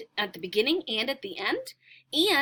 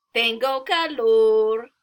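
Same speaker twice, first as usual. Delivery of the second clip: bird speaking; 7 dB louder, slower than usual. Acted. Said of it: "El pájaro dice".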